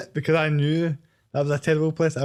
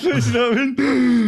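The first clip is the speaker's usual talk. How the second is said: laughing; 7 semitones higher, 5 dB louder, slower than usual. Real, not acted. Laughing at a terrible kebab.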